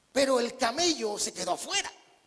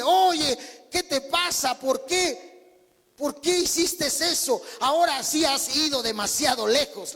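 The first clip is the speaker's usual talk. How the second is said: angry; 4 semitones higher, slower than usual. Retold or imitated. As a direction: tell the camel off, fed up. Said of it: "se levanta enojado y le dice".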